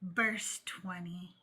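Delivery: slow hushed preacher reading scripture; solemn Sunday school teacher, drawn out. Acted. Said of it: "I was using my Sunday school teacher voice".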